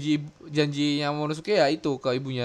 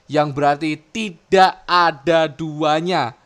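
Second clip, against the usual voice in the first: pidato dramatis yang lantang di akhir; Momonosuke; 4 dB louder than usual. Acted. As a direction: declaim the lines, slowing and getting louder. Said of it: "kata-kata dari si Momo ini". (deklamasi dramatis, makin lantang dan lambat)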